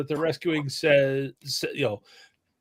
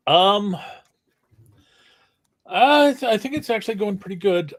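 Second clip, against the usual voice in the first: mouth full; 4 semitones higher, 5 dB louder than usual. Real, not acted. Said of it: "right after I put food in my mouth".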